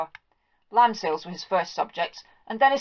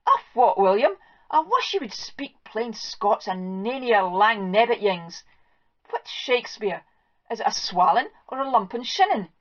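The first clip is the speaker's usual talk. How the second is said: exasperated farm wife. Acted. Wife berates husband over Shakespeare.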